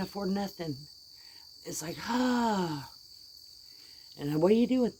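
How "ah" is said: exasperated groan. Real, not acted. At a loss over son's plight.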